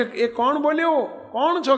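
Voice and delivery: surprised question. Retold or imitated. Saint hears a call, asks.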